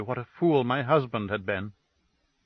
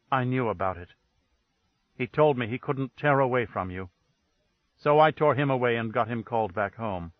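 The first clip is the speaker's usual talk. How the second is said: icy, level accusation; dead flat tone; 2 semitones lower than usual. Acted. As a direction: say it cold and dead, no colour at all. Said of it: "dead, flat tone that froze the air".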